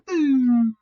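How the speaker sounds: loud, high sound-effect cry; mock crash sound; sudden boom. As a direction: punch it like an explosion. Truck dying.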